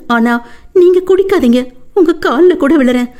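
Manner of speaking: high, tearful begging woman; wife begging husband not to drink, tearful high voice; pleading wife. Acted. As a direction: beg him to stop drinking.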